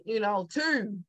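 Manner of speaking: "two" drawn out long, Baltimore style. Shown as a demonstration. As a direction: stretch the vowel in "two" like in Baltimore. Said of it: "my twos kinda go, uh, kinda long, elongated".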